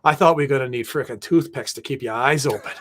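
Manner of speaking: lightly imitated South Boston coach; mock Boston accent. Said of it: "he has this big time, like, Boston accent".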